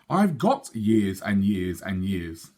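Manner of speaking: slow, unbothered and firm; stubborn little girl, taking her time; calm stubborn. Acted. Sophie answering the twins, slow and stubborn.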